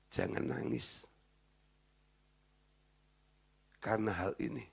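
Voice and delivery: soft, almost whispered divine command; hushed command. Retold or imitated. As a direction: say it gently under the breath, firm. God tells Aaron not to weep. (perintah Tuhan yang berbisik lembut)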